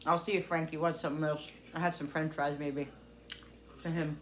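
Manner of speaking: talking with a mouth full; chewing. Real, not acted. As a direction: speak while chewing food. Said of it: "sorry, chewing".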